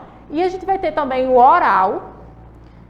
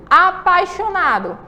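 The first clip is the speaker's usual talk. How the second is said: "apaixonado" said slowly, higher, each syllable marked; syllable stress shown; 5 semitones higher, slower than usual. Shown as a demonstration. Teacher to pupils, slowly marking strong and weak syllables. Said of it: "qual é a sílaba forte".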